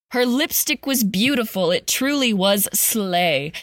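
rhythmic storybook read; sing-song Christmas verse recital; poem reading. A narrator's reading. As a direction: read it like a holiday poem to kids. Reads Christmas poem parody aloud.

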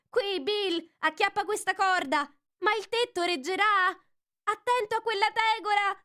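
high, excited chattering critters; fussy creatures bossing Bill about the roof; squabbling little animals. Acted. Little animals arguing on the roof, high and excited.

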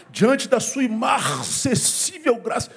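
slow, lofty churchy delivery of a fancy word; mock solemn prayer, slowly stretched; pompous prayer voice. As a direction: show off grand vocabulary to impress God. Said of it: "Você não fala assim no dia a dia".

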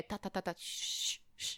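soft slow unvoiced shushing. Shushing a stubborn friend in a soft hiss. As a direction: hush them with a drawn-out shh. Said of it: "minha vontade real".

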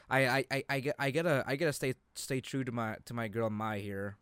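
ordinary delivery

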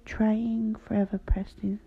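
slow whispered poem reading. Acted. Reads her poem aloud.

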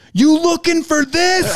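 very high, slow mocking taunt. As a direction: rub it in his face. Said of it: "I'll go".

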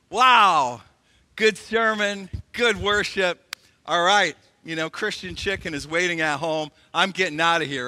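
breezy, eager to leave; a light take on a churchgoer itching to get home; hurried churchgoer. Pretend. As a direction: rattle it off like you're already out the door. Churchgoer rushing home voiced.

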